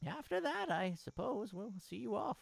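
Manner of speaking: lightly voiced caring mother. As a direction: speak as a gentle mother. Voices mother figure in game.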